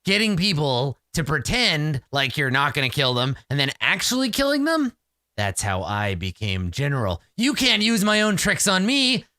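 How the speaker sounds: lightly hammed-up indignant general; rising pitch as he scoffs at the trick; boastful red cap general. Red cap general rejecting his own trick, lightly boastful creature voice.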